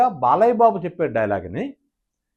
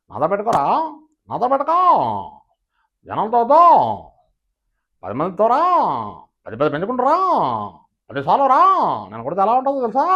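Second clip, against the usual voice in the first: rising sing-song lines, lightly voiced; Sobhan Babu impression; 4 semitones higher than usual. Mimic doing Sobhan Babu's version with rising endings. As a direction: end each line on a lift. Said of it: "అదే శోభన్ బాబు గారు చెప్పాలంటే".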